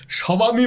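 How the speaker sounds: সবামী with the b sounded, sobami; wrong pronunciation. Shown as a demonstration. Host showing a wrong spelling-based pronunciation. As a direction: pronounce সবামী letter by letter, b sounded. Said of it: "বলি না".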